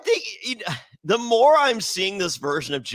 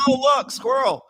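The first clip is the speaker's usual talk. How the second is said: high, distracted squeal at a squirrel; ditzy distracted voice; 10 semitones higher, 4 dB louder than usual. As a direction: play her spacing out over a squirrel. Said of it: "Carolyn's like".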